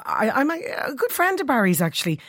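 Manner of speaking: slightly hoarse, worn voice. Real, not acted. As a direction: talk through a hoarse throat. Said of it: "I'm a little bit hoarse today".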